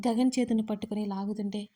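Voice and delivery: ordinary delivery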